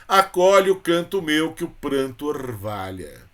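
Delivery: slow, solemn declaiming of a tribute poem; poem recitation. Shown as a demonstration. Teacher reciting a poem for students, solemn declaiming. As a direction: recite it like an elegy to a fallen poet.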